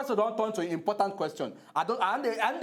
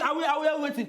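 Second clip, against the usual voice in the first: mocking echo; 6 semitones higher, faster than usual. Echoes opponent's stumbling repeated question.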